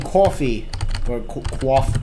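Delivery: fumbled attempt at a Northern US accent; failed Northern accent. Shown as a demonstration. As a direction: try and botch the Northern "coffee". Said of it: "I can't do accents".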